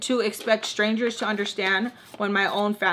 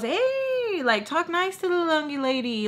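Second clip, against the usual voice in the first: much higher put-on voice for Nacho; imitating Nacho; 8 semitones higher, 3 dB quieter than usual. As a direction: do Nacho defending her, high and light. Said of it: "Nacho goes".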